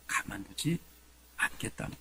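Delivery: low, soft acted menace; hushed royal warning; King Saul's threat. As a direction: drop to a quiet threat, pausing mid-phrase. Saul's threat, lowered and broken up.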